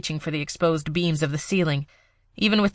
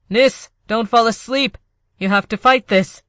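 urgent plea, higher and louder; pleading; 6 semitones higher, 5 dB louder than usual. Acted. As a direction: beg her to stay awake. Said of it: "Hart pleaded".

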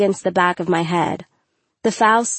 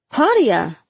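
tag; 4 semitones higher than usual. A narrator's reading. Teacher finds hurt student.

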